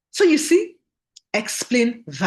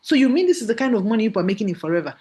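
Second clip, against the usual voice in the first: astonished; faster than usual. Retold or imitated. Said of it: "The lady said".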